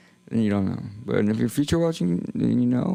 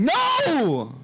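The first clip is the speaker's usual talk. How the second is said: emphatic no. Retold or imitated. Streamer answering chat's question, a high emphatic no. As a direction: shut it down in one word. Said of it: "I'm like".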